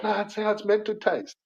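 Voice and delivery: high, rising to a loud "Taste it."; insist, building to a pushy high command; mock insistent owner. Owner urging customers.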